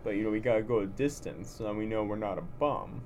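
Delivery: Rocky Balboa accent. Shown as a demonstration. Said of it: "using the Rocky voice".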